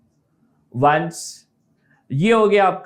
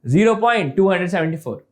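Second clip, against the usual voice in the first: rushed reading; faster than usual. Retold or imitated. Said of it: "Neeraj एकदम तेजी में पढ़ता है".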